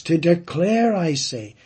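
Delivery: To declare punched high and loud, then I say dropping back; stressing it. Shown as a demonstration. Preacher emphasizing Paul's words to the congregation, declare punched. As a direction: hit "declare" hard, then settle on "I say". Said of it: "stressing it, emphasizing it".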